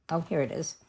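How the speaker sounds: talking with the hiccups. Real, not acted. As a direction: speak through hiccups. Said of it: "I got the hiccups".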